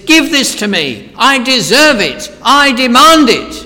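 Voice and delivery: powerful, loud, high-pitched command; God. Acted. Preacher voices enthroned God demanding worship, with power. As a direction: demand it with rising force, hammering each phrase. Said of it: "he speaks with power".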